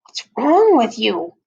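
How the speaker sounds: loud, exasperated demand; indignant. A narrator's reading. Howie confronts Eddie after being pushed, indignant. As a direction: punch it out in outraged disbelief. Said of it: "pushed him into the girls' bathroom".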